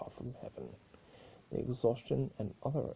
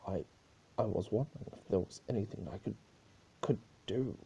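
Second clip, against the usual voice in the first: nervous stuttering guard; 2 semitones higher, faster than usual. Acted. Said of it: "noticing a nervous Solar Guard".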